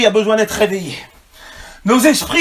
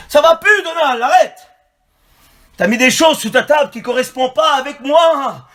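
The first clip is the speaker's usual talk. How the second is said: raised, higher preaching cry; full-force preaching; 5 semitones higher than usual. Real, not acted. Preacher voicing God's rebuke to Donald, full-force preaching. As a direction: call out the rebuke from the pulpit.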